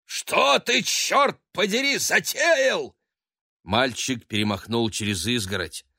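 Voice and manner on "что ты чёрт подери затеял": high, loud angry yell; father yelling at son on the roof; angry roar. A narrator's reading. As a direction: yell at the boy in fury. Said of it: "взревел владыка дома".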